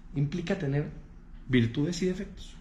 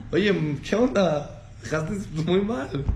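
burla riendo; slower than usual. Acted. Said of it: "Pero se está riendo".

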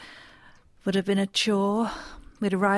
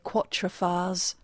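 slow mock French pronunciation; 2 semitones lower, 4 dB quieter, much slower than usual. Mock French version of name.

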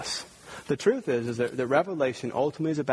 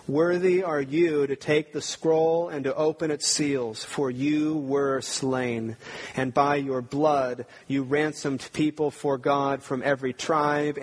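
solemn scripture reading; slower than usual. Shown as a demonstration. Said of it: "Let me read that song again".

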